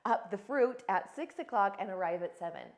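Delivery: owning the choice. Shown as a demonstration. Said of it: "be honest and specific".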